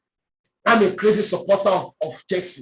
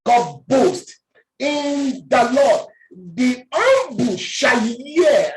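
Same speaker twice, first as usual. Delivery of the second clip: slow emphatic preaching; 2 semitones higher, 3 dB louder, much slower than usual. Acted. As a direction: stretch every word, slow and firm. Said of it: "slow emphatic reading".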